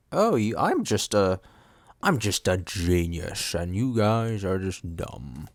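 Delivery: slow, drawn-out smug parody; mock smug genius. Student mocking how arrogant they sound to classmates, smug. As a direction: parody a conceited know-it-all. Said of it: "I know that's what that sounds like".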